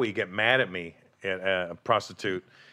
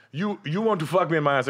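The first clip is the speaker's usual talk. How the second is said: hooker's come-on; 6 semitones higher, 4 dB louder than usual. Retold or imitated. Prostitute voiced in retold story.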